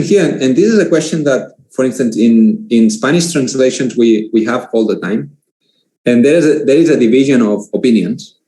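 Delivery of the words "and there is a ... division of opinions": talking between sips of water; drinking water. Real, not acted. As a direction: speak right after a drink of water. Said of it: "Sorry, I'm drinking a lot of water".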